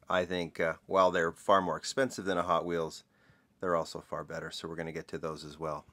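groggy, just-woke-up voice; morning voice. Real, not acted. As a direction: talk like you just got out of bed. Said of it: "I have my morning voice".

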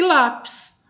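teacher's demo of "lápis", "lá" strongest; stress on first syllable. Shown as a demonstration. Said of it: "penúltima sílaba mais forte".

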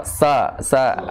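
sa, sa said as a drill; drilled letter sounds. Shown as a demonstration. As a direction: repeat sa, sa like a model sound. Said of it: "Pertama emang harus sa".

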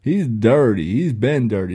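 mock-tough basketball player calling someone dirty; Draymond Green impression. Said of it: "my impression game right now".

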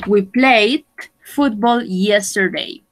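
played said as one syllable, plade; played without the E. Shown as a demonstration. Teacher modelling played for the class. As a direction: say played with no extra E sound. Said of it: "we don't pronounce the E".

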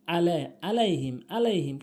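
"আলাইহিম" with plain opening a; common mispronunciation. Shown as a demonstration. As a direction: say "আলাইহিম" with no ain. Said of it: "আমরা বলি কি".

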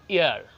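ইয়ার with a silent h, as "iar"; the teacher's right way; correct pronunciation. Shown as a demonstration. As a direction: say ইয়ার without any h. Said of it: "হায়ের বলবেন না".

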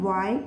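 final "Y" sounded as "yuh"; consonant Y sound. Shown as a demonstration. Teacher shows learners Y as a consonant, "Y" said yuh. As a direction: say "Y" as the sound yuh, not the letter name. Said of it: "gives the sound Y".

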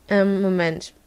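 ordinary talk, nothing marked

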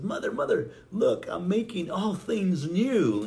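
high, loud, drawn-out excitement; excited Jesus. Acted. Jesus carrying the cross tells his mother, excited. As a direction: announce it with eager, hammed-up joy.

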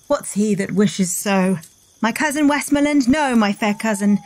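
lightly declaimed battle speech; Shakespeare recital. Pretend. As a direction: recite it like a stage king rallying troops.

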